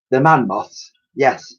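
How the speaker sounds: a hint of the old lady, mishearing; lightly voiced old lady, cheerfully wrong; Dottie's voice. Dottie repeating Elsie's word, lightly voiced old lady.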